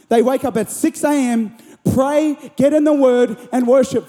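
fervent preaching. Acted. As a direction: drive each phrase home to the congregation. Preaches with rising emphasis.

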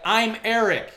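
loud, high re-enacted protest; exasperated retort. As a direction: throw it back loudly, acting out your exasperation. Retold exasperated reply to worker.

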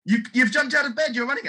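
high, amazed, voicing the startled household; astonished cry. Family seeing the paralysed man run, high astonished voice. Household shocked he's out of bed.

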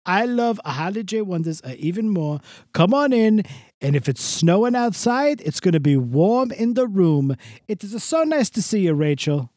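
lightly voiced showbiz host; a hint of a gushing old entertainer; gushing guest character; Mister Del Rossi. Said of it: "Mister Del Rossi".

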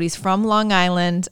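put-on a touch of Long Island accent. Telling listeners where Luke's dad is from, Long Island accent. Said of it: "Is that your Long Island accent right there?".

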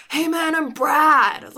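mock a SoCal dude introducing himself; SoCal impression. Co-host teasing the other host, mock SoCal surfer accent. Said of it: "your SoCal impression of me".

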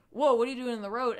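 badly faked British, blurted out fast and loud; horrible British accent. Driver to people standing in the road, horrible British accent. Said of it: "in my horrible British accent".

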